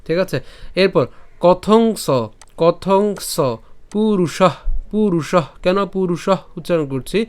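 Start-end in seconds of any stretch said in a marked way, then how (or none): 1.4-3.4 slow কথং with a separate স; pronunciation demo. Shown as a demonstration. Teacher moves to the next part, slow কথং স. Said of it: "উচ্চারণ করলাম". 3.9-5.4 পুরুষঃ ending in a puff of breath; visarga demo. Shown as a demonstration. Teacher shows the visarga, breath released on পুরুষঃ. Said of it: "যার কারণে আমরা উষ্ম ছাড়লাম".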